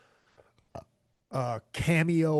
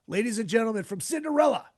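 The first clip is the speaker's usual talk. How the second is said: higher announcer's build to the band name; show announcer; 6 semitones higher, faster than usual. Pretend. Host introducing his guest to listeners, announcer voice. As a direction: ring out the guest introduction, pitched up.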